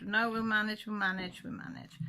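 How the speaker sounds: calming words trailing into a whisper; reassuring the family, fading out. Retold or imitated. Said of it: "So I said".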